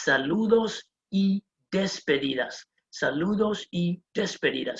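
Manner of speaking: saludos y despedidas, each word clearly separated; Spanish pronunciation. Shown as a demonstration. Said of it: "In Spanish, we say".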